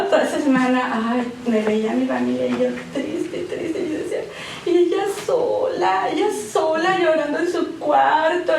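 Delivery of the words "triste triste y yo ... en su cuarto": tearful. Real, not acted. Tearful while telling sister's pain.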